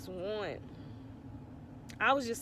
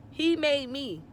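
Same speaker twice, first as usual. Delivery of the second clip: higher, louder, voice straining with hurt; He made me pushed up high and loud, on the edge of tears; choked-up repeat; 6 semitones higher, 6 dB louder than usual. Real, not acted. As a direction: let the pain break into the repeat of He made me. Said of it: "I'm gonna get emotional".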